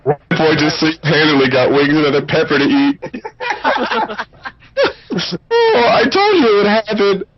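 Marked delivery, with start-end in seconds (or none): 3.0-7.2 laughing. Real, not acted. Laughing at the spectacle.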